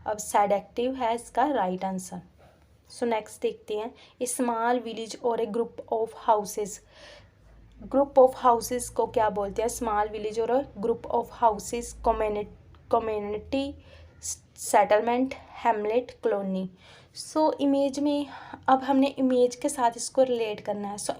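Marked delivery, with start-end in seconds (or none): 4.2-6.8 each word read out very slowly; slow, clear dictation of the question. Shown as a demonstration. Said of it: "teacher reads question slowly". 9.7-16.7 each word read out very slowly; slow, clear dictation of the question. Shown as a demonstration. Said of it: "teacher reads question slowly".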